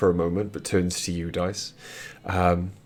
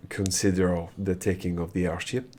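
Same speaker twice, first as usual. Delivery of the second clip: lightly voiced French prince, halting; measured prince with a French accent. Plays the French-speaking prince.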